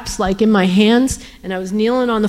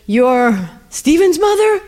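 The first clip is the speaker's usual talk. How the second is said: retold astonishment; 6 semitones higher, 3 dB louder, slower than usual. Man realises who she is.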